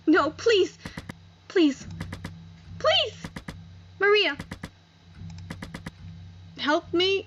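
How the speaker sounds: put-on girl begging her friend to save her; desperate begging. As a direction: cry out for help in terror. Jael begs to be spared.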